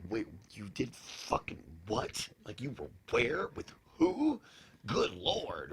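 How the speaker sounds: lightly acted incredulity, pitch leaping on the last question; shocked onlookers. Normal people reacting to the hosts' stories, mock disbelief. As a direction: mimic a stunned listener, halting in disbelief. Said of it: "normal people look at you, they're like".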